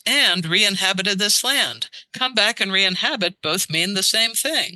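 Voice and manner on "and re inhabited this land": reading Euripides aloud. Retold or imitated. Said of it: "he says".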